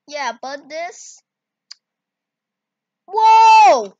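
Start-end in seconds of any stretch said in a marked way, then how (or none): 3.1-3.9 surprised. Real, not acted. Reacts to the effect.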